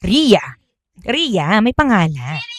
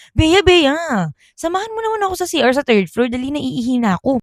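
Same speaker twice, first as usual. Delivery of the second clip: pleading schoolgirl; 4 semitones higher, 4 dB quieter, faster than usual. Acted. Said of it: "Sabi daw ni Ria".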